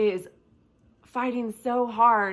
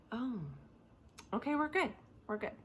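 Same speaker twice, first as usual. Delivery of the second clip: quiet relief; 3 semitones higher, 11 dB quieter than usual. Acted. Acts servant seeing heavenly army.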